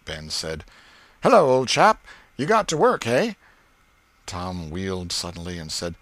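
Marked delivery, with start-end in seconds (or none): 1.2-3.3 put-on high, loud cocky kid; taunting boy. Ben teasing working Tom, high and loud. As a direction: rub it in, cheeky.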